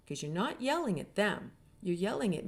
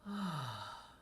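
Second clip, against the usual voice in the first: relieved sigh; 3 semitones lower, 8 dB quieter than usual. Retold or imitated. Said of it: "their body kind of goes".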